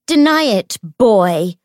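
loud, high accusing shout. A narrator's reading. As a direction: shout it as a challenge. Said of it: "she shouted at James".

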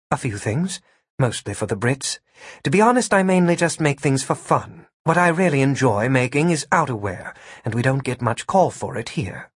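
lightly voiced seamstress character; modest Gwen. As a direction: answer candidly, with understated enthusiasm.

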